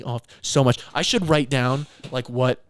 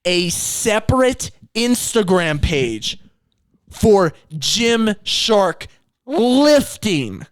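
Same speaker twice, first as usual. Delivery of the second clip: incredulous rant; 8 semitones higher, much slower than usual. Real, not acted. Ranting about Gymshark rebrand.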